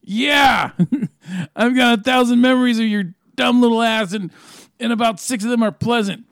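scornful taunt building to a shout; taunting Rick. Acted. Rick daring Morty to shoot, rising to a yell. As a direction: goad him to pull the trigger.

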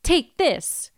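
a hint of a solemn game send-off; old man from Zelda. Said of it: "the old man who was like".

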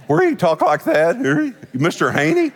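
cracking, breaking comic voice; Mister Haney. Retold or imitated. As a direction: imitate a voice that keeps cracking. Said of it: "I sounded like Mister Haney on Green Acres".

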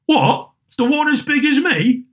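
put-on high-pitched boy's voice; street boy. A narrator's reading. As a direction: pipe up like a small lad. Boy answers Scrooge in story.

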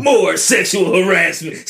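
slow booming rally announcer; monster truck ad. Pretend. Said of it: "Sounds like a monster truck rally".

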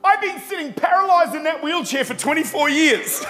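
high, loud triumphant shout; the healed woman shouting back at the preacher; retold joyful shout. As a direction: shout it out like she's just been healed. Healed woman shouts her story.

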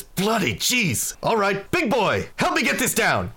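slow, high, emphatic British exclamation; boisterous trader, amazed. Acted. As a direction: boom it out with delighted bluster. Quint amazed by diamonds.

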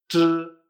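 "zh" as Chinese zhi, loud and held without i; silent I. Shown as a demonstration. Teacher recalling initial sounds, "zh" with silent I. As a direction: sustain "zh" with no i vowel. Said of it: "la I no se pronuncia".

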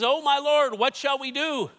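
high, loud alarmed cry to his master; panicked servant. Acted. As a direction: blurt it out in sudden fear.

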